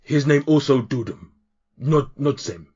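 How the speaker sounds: lightly voiced cheery half-orc in broken Common; a hint of a jolly orc bull-handler. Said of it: "another half orc".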